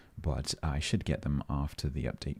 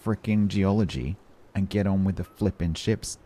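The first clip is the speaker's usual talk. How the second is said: louder, half-hammed impatient demand; mock grumpy viewer; 4 semitones higher, 5 dB louder than usual. Streamer imitating a fed-up viewer telling him to skip geology, mock grumble. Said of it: "that's Grant's way of saying".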